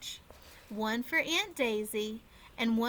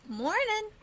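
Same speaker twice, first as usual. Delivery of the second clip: put-on little girl waking; 9 semitones higher than usual. Phoebe voiced, just woke.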